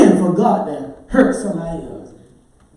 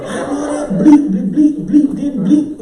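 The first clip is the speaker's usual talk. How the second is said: louder, higher bleeped outburst; mock cussing rant; 6 semitones higher, 4 dB louder than usual. Churchgoer cussing out the driver who hit his car, angrily. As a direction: blow up over the dented car.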